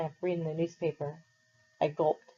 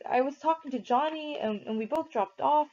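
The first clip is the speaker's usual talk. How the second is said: pleading; 8 semitones higher than usual. Acted. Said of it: "I pleaded with Derry".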